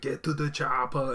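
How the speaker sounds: slow, deliberate delivery, dragged out. Discussing impressions, the speaker quotes the catchphrase everyone does: Schwarzenegger impression. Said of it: "a Schwarzenegger is always like".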